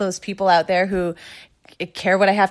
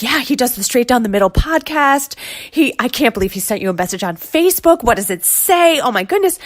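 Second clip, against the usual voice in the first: excited husband; 5 semitones higher than usual. Retold or imitated. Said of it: "So he's freaking out, so excited".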